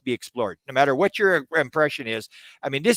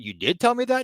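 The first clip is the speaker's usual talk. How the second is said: much higher, questioning; surprised; 10 semitones higher than usual. Retold or imitated. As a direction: genuinely caught off guard. Caught out by Desta.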